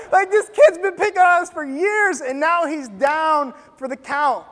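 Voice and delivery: loud, high crowd outburst; excited indignation. Retold or imitated. Kids picked on for years, excited outburst. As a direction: keep the cheering energy up, loud and high.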